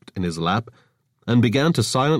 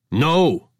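louder moaning refusal; 7 semitones higher, 5 dB louder than usual. Acted. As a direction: moan the no. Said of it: "Oscar moaned again".

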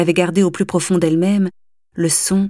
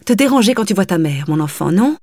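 louder, reproachful nagging; scolding mother; 3 dB louder than usual. Acted. Mother scolding her slouching daughter, sarcastic. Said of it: "lui cria-t-elle".

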